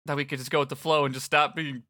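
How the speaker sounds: put-on high, lively teen guy; upbeat boy rambling awkwardly; Fret voice.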